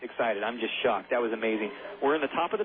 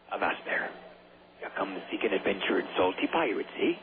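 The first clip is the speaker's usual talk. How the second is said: pirate voice; 6 semitones lower than usual. Pretend. Pirate greeting, playful bit.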